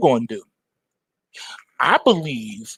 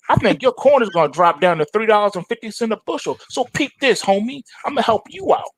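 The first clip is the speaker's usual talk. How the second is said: higher, quicker street pitch; hustler tiger; 6 semitones higher than usual. Acted. Tony the Tiger pitches a short to Farmer Brown, fast high hustler voice. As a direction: lay out the deal fast and cocky. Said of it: "says Tony the Tiger".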